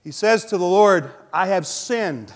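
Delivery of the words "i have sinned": slow, humble admission; humble confession. Acted. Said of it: "He responds after that with humility".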